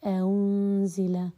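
أنزل very slow, the second hamza eased between hamza and alif; teacher slowly demonstrating tasheel on one word; softened hamza. Shown as a demonstration. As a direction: draw out أنزل with the hamza softened, not fully stopped. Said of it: "مثال ذلك بالتسهيل".

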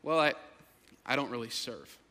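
low, soft, halting confession; reluctant admission. Retold or imitated. Churchgoer admitting to pastor, low hesitant voice. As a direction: own up to it sheepishly.

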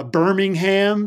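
"Birmingham" slowly, with a big HAM ending; exaggerated Alabama pronunciation. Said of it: "when I was saying Birmingham".

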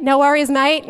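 amateur Australian lilt; Australian accent. Shown as a demonstration. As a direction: have a cheerful go at an Australian accent. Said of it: "I butchered your accent".

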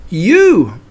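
high, loud little squeal; squeak. A narrator's reading. Squashed Piglet answering Pooh, squeaking. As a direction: squeak it indignantly from underneath. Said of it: "squeaked Piglet".

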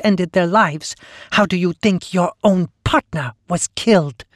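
high, oily gloating monster; oily blackmailer purr. Acted. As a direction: savor every cruel reveal. Sister Lee gloating over killings.

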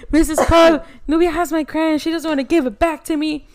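high, loud, whiny tattle to the teacher; imitating a whiny classmate calling the teacher; tattling kid.

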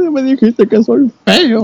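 high, slow, sing-song clown; creepy clown voice. Retold or imitated. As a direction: tease it like a sinister clown. Clown answers in retold scene.

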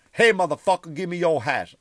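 loud, high aggressive demand; demanding yell. Retold or imitated. Homeless man repeating his hat demand loudly. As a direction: bark it again at the stranger. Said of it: "One goes like".

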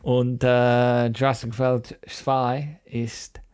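hammed-up German accent; mock German. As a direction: fake German with lots of äh. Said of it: "like a stereotypical Dutch person".

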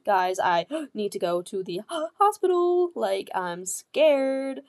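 gasping between words, barely getting it out; gasping in panic. Retold or imitated. Telling the guys she needs the hospital, gasping and scared. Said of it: "I could hardly say a sentence".

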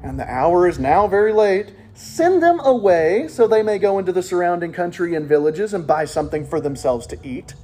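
exasperated disciples reading out a complaint; annoyed, emphatic Bible reading. Acted. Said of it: "Do you hear the annoyance?".

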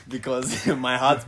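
cheesy pickup line. Acted. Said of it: "what pickup line would you use".

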